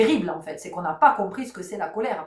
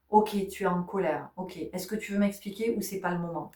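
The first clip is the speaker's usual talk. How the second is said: softened calm tone; 5 dB quieter than usual. Retold or imitated. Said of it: "l'intonation qui va s'adoucir".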